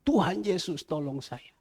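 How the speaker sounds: pleading prayer, re-enacted in repeated falling phrases; mild imitated cry of helplessness; retold crying out. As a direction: plead with God for help, retelling your own prayer. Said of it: "Saya hanya teriak".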